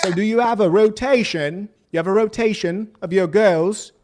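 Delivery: light mock British interviewer accent; a hint of a British accent, quizzing; British accent impression. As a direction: imitate the British interviewer, pressing him. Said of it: "in his British accent".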